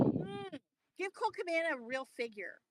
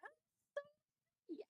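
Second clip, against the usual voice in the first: overjoyed; 11 semitones higher, 3 dB louder, slower than usual. Real, not acted. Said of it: "Very happy".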